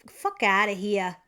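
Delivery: slow, emphatic New Jersey brush-off; New Jersey accent. Acted. Reader demonstrating the mantra for bullshit, emphatic New Jersey accent. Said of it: "say it in a New Jersey accent".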